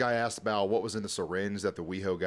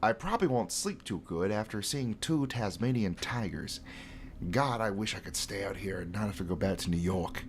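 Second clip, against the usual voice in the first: nerdy voice. Acted. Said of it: "What a terrible accent this guy's doing".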